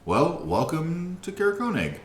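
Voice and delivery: high, loud, cheery dragonborn greeting; jovial dragonborn. Acted. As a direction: boom out a jolly welcome. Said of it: "kinda jovial in his speak".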